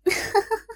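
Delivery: bright high giggle rising up; a quick lilting laugh. Acted. Hostess laughing at her client's request, high giggle.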